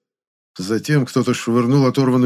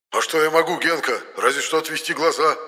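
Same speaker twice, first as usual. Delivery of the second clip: panicked; 7 semitones higher than usual. A narrator's reading. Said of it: "запаниковал Енох".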